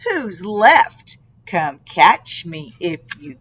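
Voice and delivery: sing-song bragging little cookie; boastful gingerbread baby. Acted. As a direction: brag it like a rhyme.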